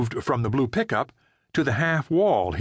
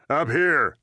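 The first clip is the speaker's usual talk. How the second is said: urgent order; 6 semitones higher, 3 dB louder than usual. A narrator's reading. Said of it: "Frank said".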